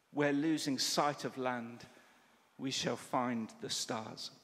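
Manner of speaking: slow, measured prayer read aloud; prayer poem reading. Acted. A preacher closing the sermon by reading a prayer, slow and measured. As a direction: let each line settle, slowly.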